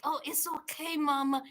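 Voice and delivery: very soft, low reassurance; calm her down almost under your breath; hushed, low-pitched imitation of a soothing guy; soothing homeboy. Voices homeboy soothing mama.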